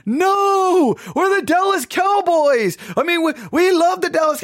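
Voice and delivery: high mock-kid shout of protest. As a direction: yell it up high like indignant little kids. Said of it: "And all the kids were like".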